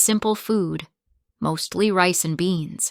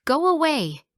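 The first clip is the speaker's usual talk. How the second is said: higher angry shout; 9 semitones higher, 3 dB louder than usual. Acted. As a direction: bark him off. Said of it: "He turned and shouted".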